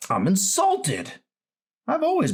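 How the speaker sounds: slow, high, hammed-up offence; drawn-out fake outrage; mock insulted. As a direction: play the wounded gentleman. The speaker feigns offence at teasing.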